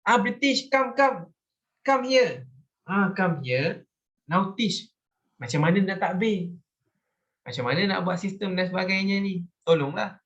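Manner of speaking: high, pleading mock invitation; voicing Thailand. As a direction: beg the British to come and teach, hammed up. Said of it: "Thailand invite British".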